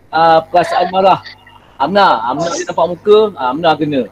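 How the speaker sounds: ordinary talk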